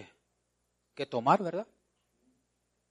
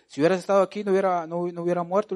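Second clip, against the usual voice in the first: reproachful Marta; 5 semitones higher, 4 dB louder, faster than usual. Retold or imitated. Marta reproaching Jesus, retold.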